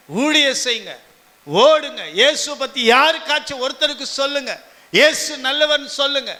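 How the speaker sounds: urgent preacher's commands in short bursts; rousing sermon call; preaching exhortation. Acted. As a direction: send the congregation out with zeal. Preacher urges congregation to go out.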